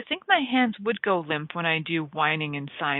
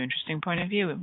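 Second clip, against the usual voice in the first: settled and soft; 5 dB quieter, faster than usual. Shown as a demonstration. Facilitator to listeners, calmly repeating "interesting point of view" softly.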